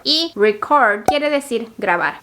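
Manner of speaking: record said reCORD, stress on CORD; slow, stress the end of record; last-syllable stress. Shown as a demonstration. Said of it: "haciendo énfasis en la última sílaba". (record con acento en la última sílaba)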